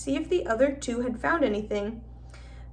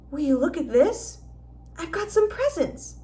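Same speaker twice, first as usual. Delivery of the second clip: excited; 5 semitones higher than usual. A narrator's reading. Harry excited about presents.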